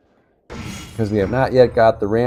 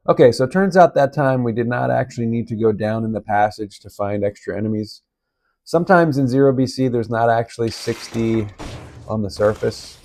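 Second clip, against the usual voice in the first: hoarse, sick-sounding voice; raspy voice. Real, not acted. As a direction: talk through a sore, raspy throat. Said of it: "that's why I got the raspy voice going on".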